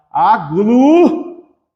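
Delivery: AGLUTINAÇÃO in long, separated syllables. Shown as a demonstration. Teacher redoing the word after a slip, syllable by syllable. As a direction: sound out "aglutinação" piece by piece, slowly.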